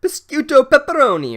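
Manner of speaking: very high, loud mock incantation; mock spell yell. Teacher yelling a fake spell at pixies, shrieked high. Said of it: "Gangster Sue Grafton yells".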